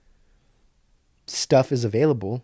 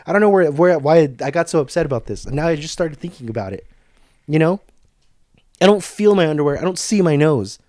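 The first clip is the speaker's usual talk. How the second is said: louder, faster exasperated ranting; upset rant; 2 semitones higher, 4 dB louder than usual. Real, not acted. Vlogger admits getting upset over underwear ads: louder rant. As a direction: vent it out, louder. Why I got so upset about this.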